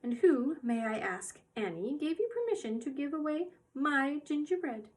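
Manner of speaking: a lightly voiced stern little old mother; a hint of an indignant old shopkeeper; stern old woman. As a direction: scold her grown daughter, sharp and high. Mrs Corey voiced in read story.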